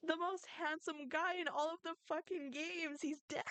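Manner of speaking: high-pitched outraged lament; dismayed lament. Real, not acted. Gamer mourning the most handsome character, dismayed lament.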